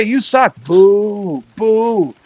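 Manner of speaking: mock jeering with drawn-out boos; imitating heckling crowd. Acting out people who hate his act, mock heckling. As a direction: jeer like an audience at a flop. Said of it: "they're gonna say".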